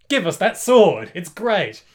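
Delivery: loud, high demand, drawn out slowly; mock demanding shout. Retelling a gang picking on Chaka, mock demanding shout. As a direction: playfully shout like a greedy gang.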